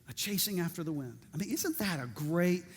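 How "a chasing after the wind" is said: quiet quick repeat. Shown as a demonstration. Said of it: "And there's the phrase".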